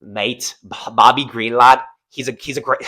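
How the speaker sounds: badly faked Scouse, stumbling over the words; Paddy Pimblett accent. Host retrying a fighter's voice after failing, low faked Scouse accent. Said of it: "I can't do my Paddy Pimblett accent".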